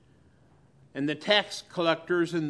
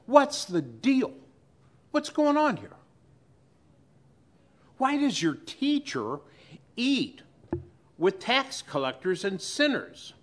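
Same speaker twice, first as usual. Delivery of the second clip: scandalized Pharisees; 7 semitones higher than usual. Acted. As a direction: play the shocked gossiping Pharisee. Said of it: "cozy up next to Jesus' disciples and said".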